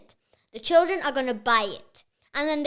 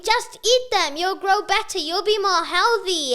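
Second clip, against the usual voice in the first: higher, louder urging voice; cerebro sensato; 5 semitones higher, 5 dB louder than usual. Acted. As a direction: urge insistently as the sensible brain. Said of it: "your brain is saying".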